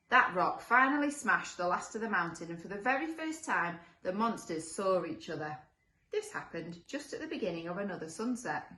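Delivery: lilting storybook read with stressed key words; storyteller setting the scene; story narration. A narrator's reading. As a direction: read a picture book to children. Reads picture book aloud.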